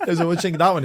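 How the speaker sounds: laughing while acting out the question. Real, not acted. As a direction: giggle through the retold question. Laughing retelling the bar scene.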